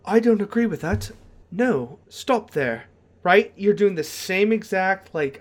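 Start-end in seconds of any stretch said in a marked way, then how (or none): 0.1-2.8 quick then slowed, slightly raised character voice; a hint of a put-on elf ranger. Shown as a demonstration. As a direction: speak as the ranger would. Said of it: "but if you go".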